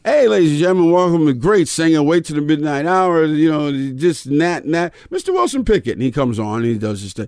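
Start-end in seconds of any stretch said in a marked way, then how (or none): 0.0-5.9 mock announcer intro. Retelling his MC intro.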